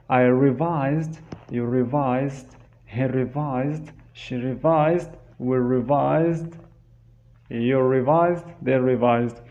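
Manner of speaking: steady conjugation drill; teacher's drill. Shown as a demonstration. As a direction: recite each form for the class. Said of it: "what we can say".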